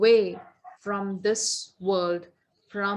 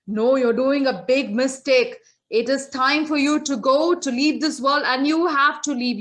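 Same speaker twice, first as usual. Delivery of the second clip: louder, firm scolding; stern insistence; 2 semitones higher, 6 dB louder than usual. Acted. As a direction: lay down the law. Yama insists Lucky Ram must go.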